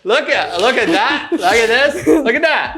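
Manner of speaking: gushing teacher. Retold or imitated. Keeps mocking the teacher.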